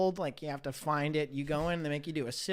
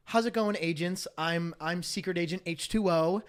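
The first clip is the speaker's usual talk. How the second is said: imitating themed server; 3 semitones higher, 4 dB louder than usual. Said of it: "they're just like".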